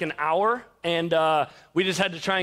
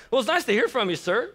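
mock-polite, pitched higher; passive aggressive; 4 semitones higher than usual. Umpire answering an angry coach, passive aggressive. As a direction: needle him with exaggerated politeness. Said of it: "I was a little passive aggressive".

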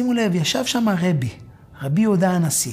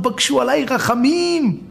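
slow, high begging plea; slow plea to the hills; pleading for mercy; 5 semitones higher than usual. Acted. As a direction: beg slowly and a little higher.

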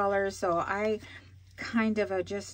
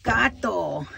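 loud, high mock gasp; playful exclamation; 4 semitones higher, 8 dB louder, much slower than usual. Real, not acted. Seeing her birthday envelope, a loud playful exclamation. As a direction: exclaim it like a cartoon.

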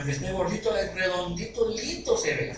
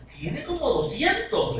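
slow, much higher, showing off; eager exaggeration; 10 semitones higher, slower than usual. Friend overselling the groom to the father, slow high boast. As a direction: pile it on, slowly and high.

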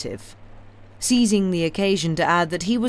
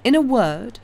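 Madame's voice; 8 semitones higher, 7 dB louder than usual. A narrator's reading.

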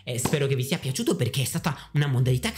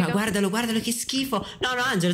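high-pitched appalled protest; mock-outraged disgust; 9 semitones higher than usual. Real, not acted. Host scolding Angelo's indecent antics, high mock-disgusted outcry.

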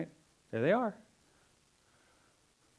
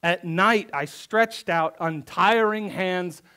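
slow, weighty reading of the psalm; solemn scripture reading; slower than usual. Acted. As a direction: read each line slowly and gravely. Reads psalm slowly in church.

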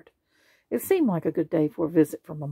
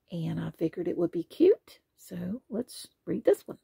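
whisper; 3 dB quieter than usual. Real, not acted. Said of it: "reader whispers aside".

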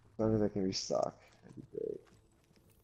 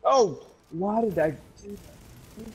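surprised outcry; 11 semitones higher, 5 dB louder than usual. Real, not acted. Sudden death in game.

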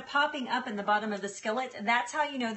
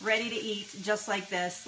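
normal talking voice

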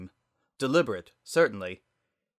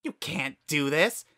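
rising protest; 5 semitones higher than usual. Acted. Flowey protests.

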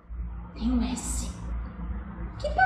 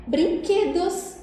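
word said again; 6 semitones higher, much slower than usual. Shown as a demonstration. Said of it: "Três sílabas".

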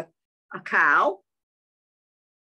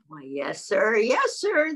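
goose answers; slower than usual. Acted.

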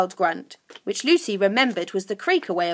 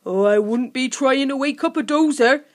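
higher creature voice; helpful creature Sniff; 4 semitones higher, 5 dB louder than usual. A narrator's reading. Sniff advising Lucy about sleepers, helpfully. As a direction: offer advice in a creature's voice. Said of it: "said Sniff helpfully".

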